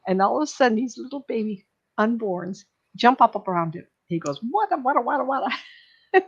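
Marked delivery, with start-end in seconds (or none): 4.5-6.2 higher, stuttering in surprise; tongue-tied with astonishment; stammering surprise. Retold or imitated. Baby souls jump up around him.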